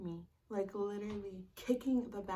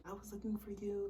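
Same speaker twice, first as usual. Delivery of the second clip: mock sincere. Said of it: "trying to seem sincere".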